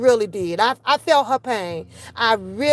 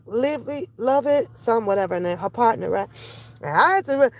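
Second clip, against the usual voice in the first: ordinary talk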